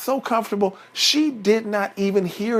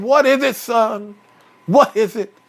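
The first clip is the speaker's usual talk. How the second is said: loud, raised, impatient father; exasperated Papa Bear; 4 semitones higher, 4 dB louder than usual. Acted. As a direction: snap back at your son loudly. Papa Bear snaps at his son.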